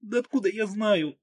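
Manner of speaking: wounded woman, irritated cry; annoyed cry. A narrator's reading. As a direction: snap back in frustration. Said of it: "с досадой выкрикнула она".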